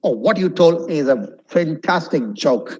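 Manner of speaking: lightly acted compliment; mild impressed tone; example sentence. Shown as a demonstration. Teacher using the word in a sample line. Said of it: "It's a joke".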